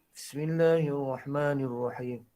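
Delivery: slow Bismillahirrahmanirrahim held low despite the push. Shown as a demonstration. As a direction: try to rise but stay low. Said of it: "Tinggi lagi".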